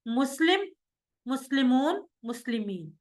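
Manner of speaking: مسلم then مسلمون, مسلمین said clearly; model recitation. Shown as a demonstration. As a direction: show the plurals one by one. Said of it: "جیسے".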